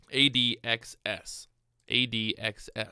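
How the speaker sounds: A D X S spelled letter by letter, slow and careful; spelled out slowly. Shown as a demonstration. Trader to viewers on a hard ticker name, slow spelling. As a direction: slowly work through each letter of A D X S. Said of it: "the hardest thing in this world to say".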